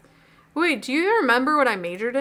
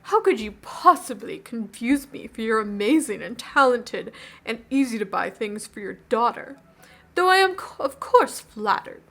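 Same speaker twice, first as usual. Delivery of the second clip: grand, stately royal voice; regal voice. Pretend. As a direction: speak like a pompous king. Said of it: "like, a regal voice".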